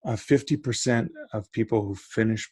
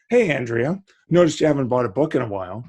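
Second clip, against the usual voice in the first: lightly acted retailer greeting a reader; pitched-up, lightly played customer nudge; retailer's friendly prompt; 3 semitones higher, 4 dB louder than usual. Retailer nudging a reader to open books, lightly acted prompt. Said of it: "Why aren't they prompting them to say".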